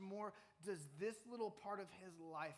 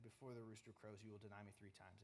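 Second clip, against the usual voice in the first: softly remembered words; 7 semitones lower, 10 dB quieter, faster than usual. Retold or imitated. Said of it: "Peter remembered what Jesus said".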